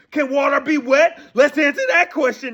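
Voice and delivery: heated yell. Real, not acted. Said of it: "I'm sorry we getting heated".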